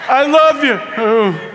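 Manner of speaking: high, loud party yell; mock scream caught in sudden silence; screaming over music. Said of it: "you're screaming".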